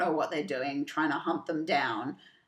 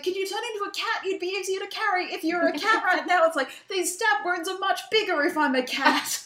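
mock pleading; 12 semitones higher than usual. Comic bickering quoted.

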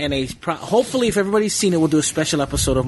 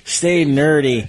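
radio sign-off voice; much slower than usual. Acted. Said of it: "I haven't done that in forever".

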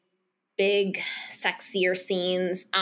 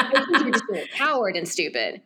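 amused retelling. Retold or imitated. Teller repeating boy's insult to friend, laughing. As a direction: quote said through laughter.

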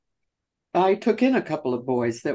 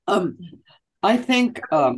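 choking on something; strained voice after coughing; 6 semitones higher than usual. Real, not acted. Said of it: "I'm choking on something".

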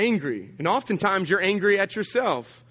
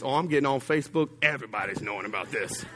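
fast, lower smug muttering; mock petty scheming; petty vow; 4 semitones lower, 3 dB quieter, faster than usual. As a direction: rush it out, plotting revenge. Threatening Facebook post.

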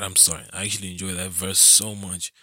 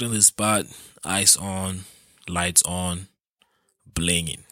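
read like a sentence. Shown as a demonstration. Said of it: "I'll just read it like a sentence".

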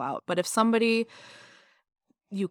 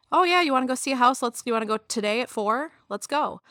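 lightly voiced eager agent, quick and higher at first; over-eager realtor; 5 semitones higher than usual. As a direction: rattle it off like an agent itching to go.

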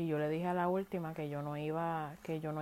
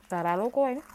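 louder and higher in disbelief; scoffing; 5 semitones higher, 7 dB louder than usual. Real, not acted. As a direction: scoff at the absurdity. Scoffing at ex's friend requests.

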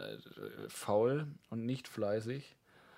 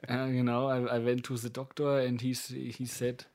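put-on German accent; 3 dB louder than usual. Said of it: "mit deutschem akzentischem Englisch".

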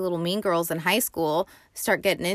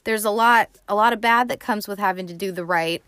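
mad lecture; 3 semitones higher, faster than usual. Retold or imitated. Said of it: "he's just real mad".

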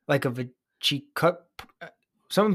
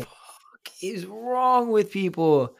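laugh-crying whisper; 5 semitones higher, much slower than usual. Real, not acted. Appalled reaction to necklace story.

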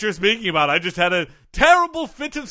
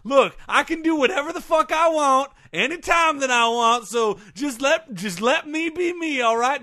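redneck outburst; 4 semitones higher than usual. Acted. Guest snapping back to his hillbilly self. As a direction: drop the posh act and threaten him like a redneck. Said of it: "you reverted to your natural self there for a second".

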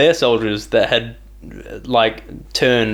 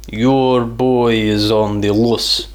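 mock ominous warning; menacing villain line; much slower than usual. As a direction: drawl it out like a threat. Retelling villain's phone threat.

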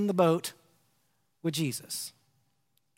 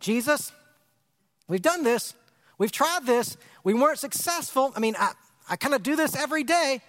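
frustrated. Retold or imitated. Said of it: "you hear the frustration".

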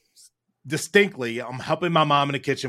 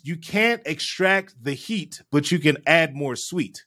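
slow quoted maxim; slower than usual. Retold or imitated. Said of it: "So what she said was".

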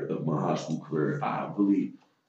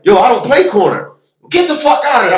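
mock protest; 10 dB louder than usual. Arguing with coach in story.

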